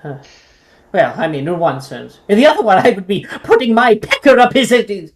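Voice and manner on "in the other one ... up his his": lightly voiced prim old owl; a hint of a haughty old owl; fussy old owl. Owl threatens dead wizard.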